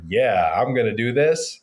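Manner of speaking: a touch of faked bravado on this; lightly faked confident line; mock confidence. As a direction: put on a bold front, lightly. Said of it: "you kinda gotta, like, say".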